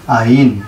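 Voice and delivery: আইন said as a firm, clear ain; suffix আইন said clearly. Shown as a demonstration. Teacher answers his own question, আইন said firmly. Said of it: "তাহলে আমরা উচ্চারণ করব কি?".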